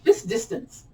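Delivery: high-voiced second go at "Fist distance"; tongue-twister retry. Shown as a demonstration. Teacher retrying a hard-to-say phrase, in a high voice. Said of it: "That is so hard to say".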